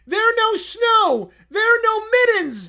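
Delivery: high, loud indignant bear shout; broken-English bear. Acted. Little Brown Bear protesting at the screen, high and loud. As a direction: protest like an upset toddler. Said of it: "He runs to the window".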